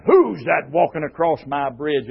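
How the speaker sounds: lightly voiced gruff troll; a touch of gruff troll. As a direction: challenge like a storybook troll. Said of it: "in just as gruff a voice as the troll had".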